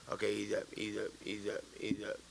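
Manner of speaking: talking himself down under his breath; quiet self-talk. Retold or imitated.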